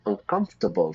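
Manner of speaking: "Uncomfortable" as UN-kumf-tuh-bl, four syllables. Shown as a demonstration. Teacher repeating the four-syllable "Uncomfortable" for learners. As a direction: repeat "Uncomfortable" with the middle "or" swallowed. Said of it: "Four syllables".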